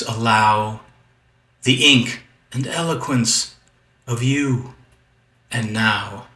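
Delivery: measured, emphatic verse reading with pauses between lines; poem recitation. Acted. Poet reads Wild Sonnet six hundred and one, poem recitation. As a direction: recite the verse deliberately, weighting key words.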